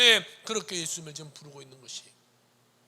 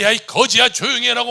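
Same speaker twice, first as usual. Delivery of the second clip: loud higher harsh yell; crowd scolding; 6 semitones higher, 17 dB louder than usual. Acted. Crowd silencing the blind man, loud scold. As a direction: shout the beggar down. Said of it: "사람들이".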